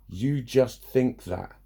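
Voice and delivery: slow, drawn-out mocking of a dismissive line; mock dismissive quote. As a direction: drag it out like a know-it-all. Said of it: "people say to me".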